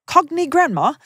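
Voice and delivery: cogny read with a high, odd vowel. Retold or imitated. Mispronouncing cockney in a mock reading. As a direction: say cogny as the letter spells it.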